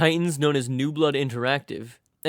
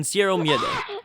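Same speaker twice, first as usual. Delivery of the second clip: bad Spanish accent; 2 semitones higher than usual. Shown as a demonstration. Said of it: "excuse my absolutely shit Spanish accent".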